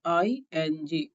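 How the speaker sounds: each letter named slowly and clearly; spelling out. Shown as a demonstration. Teacher spelling the word for students, slow. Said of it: "तो S L double E P I N G".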